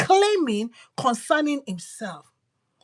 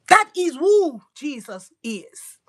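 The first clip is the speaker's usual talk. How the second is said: emphatic; 3 semitones higher, 6 dB louder, slower than usual. Real, not acted. Preacher's emphatic declaration.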